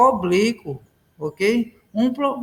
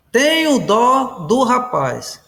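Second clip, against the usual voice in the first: slow, measured word-by-word reading; slow example reading; slower than usual. Shown as a demonstration. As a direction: spell the sentence out slowly for students. Teacher reads out example sentence. (frase de exemplo lida devagar)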